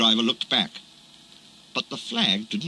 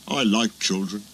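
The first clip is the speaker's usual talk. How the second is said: simply. Acted. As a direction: say it simply, from the heart. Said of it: "he said simply".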